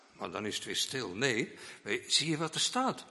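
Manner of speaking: usual speaking voice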